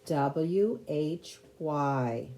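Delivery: slow letter-by-letter spelling. Shown as a demonstration. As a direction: spell out each letter slowly and clearly.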